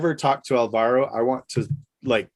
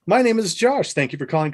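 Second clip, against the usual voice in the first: higher, brisk phone-agent greeting; call centre greeting; 6 semitones higher than usual. Retold or imitated. Airline agent answering a caller, bright and fast. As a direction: chirp the airline welcome. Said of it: "I'd say".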